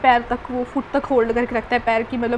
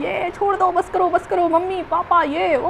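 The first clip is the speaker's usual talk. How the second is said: mock screaming; 5 semitones higher than usual. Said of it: "चिल्ला रही हूँ".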